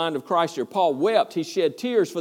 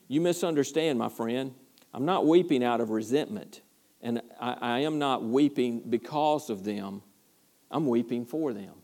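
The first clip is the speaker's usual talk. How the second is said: softer and lower, full of compassion; tender quiet Paul; 3 semitones lower, 4 dB quieter than usual. Retold or imitated. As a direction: speak it like a broken heart, softly. Paul's tender final reply.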